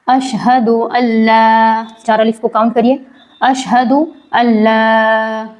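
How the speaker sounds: ला in अल्ला stretched over four counts, very slow; long four-count madd. Shown as a demonstration. Teacher counting out the four-alif stretch, very slow. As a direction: hold the ला in अल्ला for four beats. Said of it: "चार अलिफ के बराबर खींच कर".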